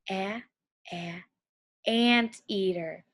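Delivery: soft, slow A, a, anteater; stretched A sound. Shown as a demonstration. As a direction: linger on the A before anteater. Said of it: "let's say it together".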